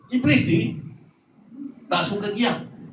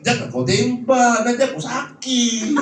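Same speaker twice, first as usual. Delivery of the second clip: high, hammed-up frightened begging; comic high-pitched plea; mock pleading; 5 semitones higher than usual. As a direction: beg in pretend panic not to be shot. Mock pleading not to be shot.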